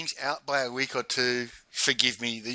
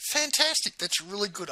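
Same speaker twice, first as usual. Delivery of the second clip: delighted congratulations; 8 semitones higher than usual. Retold or imitated. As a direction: echo a pleased friend, pitched up. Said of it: "she's laughing and she's saying".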